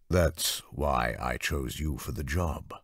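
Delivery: a hint of a smug patron; deep-voiced lord. Lord Dressen startling Anna from behind, slow and smug. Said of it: "toward the deep voice".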